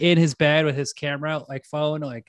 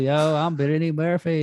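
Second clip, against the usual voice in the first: mock West Texas twang; Brittany Murphy; 2 semitones higher than usual. Imitating the actress for friends, West Texas twang. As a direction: do a rough West Texas accent. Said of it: "I think it's a West Texas twang".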